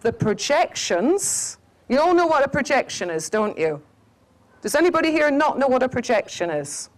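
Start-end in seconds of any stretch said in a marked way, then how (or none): none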